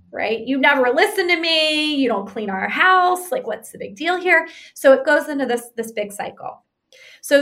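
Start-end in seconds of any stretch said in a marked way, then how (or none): 0.4-4.5 critical. Retold or imitated. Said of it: "amp it up and criticize him some more".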